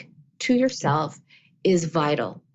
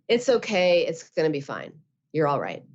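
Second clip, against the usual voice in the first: flat reassurance; 3 semitones lower than usual. Retold or imitated. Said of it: "I told myself".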